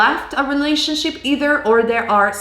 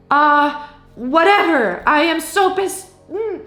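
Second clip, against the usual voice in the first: higher, exasperated venting with groans; mock frustrated rant; 4 semitones higher than usual. Fed-up listener ranting to higher self, pitched up and exasperated. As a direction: act out the pissed-off self, sighing.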